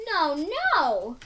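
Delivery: giggling no; laughing little girl. A narrator's reading. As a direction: laugh it off lightly.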